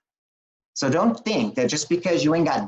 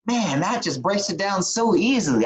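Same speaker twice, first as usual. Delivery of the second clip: lightly excited retelling of his own reaction, pitched higher; a higher, wowed "man" as if hearing it for the first time; amazed; 6 semitones higher than usual. Retold or imitated. Telling the host how his friend's idea struck him, mildly excited and higher. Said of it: "I was like".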